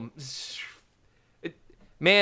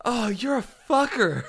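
laughing whisper; 4 semitones higher than usual. Real, not acted.

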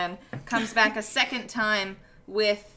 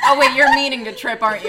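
laughing; 3 semitones higher, 12 dB louder, faster than usual. Real, not acted. Laughing realization at table.

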